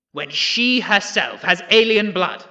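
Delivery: triumphant public accusation; accusing reveal. Acted. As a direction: lean on each word to condemn her. PM accusing rival in parliament.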